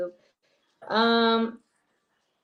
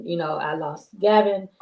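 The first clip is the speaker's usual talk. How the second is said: normal talking voice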